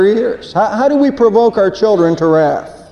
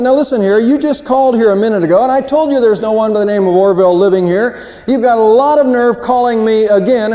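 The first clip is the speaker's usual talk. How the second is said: angry man on the phone. Retold or imitated. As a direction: tell off a repeat caller with mock indignation. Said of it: "that was anger".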